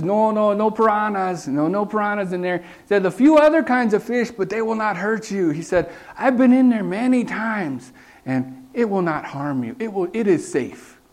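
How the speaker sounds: a hint of a Guyanese accent, easygoing. Pilot laughing off a tourist's piranha fear, mild Guyanese accent. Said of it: "he says with his local, uh, Guyana accent".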